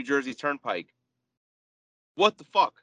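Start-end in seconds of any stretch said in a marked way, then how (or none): 2.2-2.7 a loud, high burst of disbelief; outraged. Real, not acted. Finding a Turnpike ticket two months later, outraged. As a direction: blurt it out, fed up.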